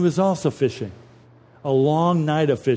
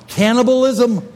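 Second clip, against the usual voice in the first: mock-horrified question, higher and louder; shocked disbelief; 5 semitones higher, 5 dB louder than usual. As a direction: voice the crowd's scandalized gasp of a question. Zuhörer fragen sich ungläubig.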